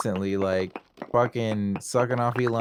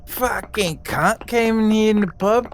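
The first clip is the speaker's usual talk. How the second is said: mock Australian; 3 semitones higher than usual. Imitating Aussie pub regular complaining.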